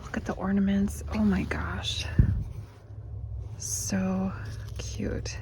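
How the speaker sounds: breathy excited whisper. Real, not acted. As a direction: hush it, delighted. Gushing over store ornaments.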